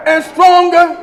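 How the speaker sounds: starting to build in volume; first step of a preacher's crescendo; getting stronger. Shown as a demonstration. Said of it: "his voice began to get stronger".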